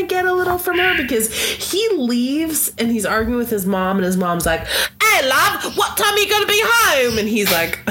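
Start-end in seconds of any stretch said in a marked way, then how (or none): 5.0-7.2 high, quick sing-song mom voice; a mother fussing over her grown son, lightly mocked; doting mother. Mocking Edwin's mother asking when he'll be home, high and quick.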